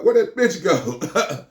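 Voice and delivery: high, very slow drawn-out repeat; repeating the question slowly for effect. Retold or imitated. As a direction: stretch each word out. Repeated slower.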